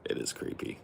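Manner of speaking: breathy spooky whisper. Shown as a demonstration. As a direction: whisper it like a secret. Whispered, then said again.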